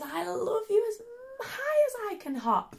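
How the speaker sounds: high giggly little hare; laughing. Acted. Little hare laughing to daddy while hopping. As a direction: laugh through it, bouncing. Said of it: "laughed Little Nut Brown Hare".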